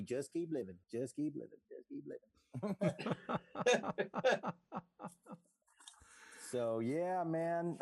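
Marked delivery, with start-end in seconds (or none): 0.0-2.3 easy repeated murmur, trailing off; McConaughey snooze alarm. Retold or imitated. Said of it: "the snooze alarm would be".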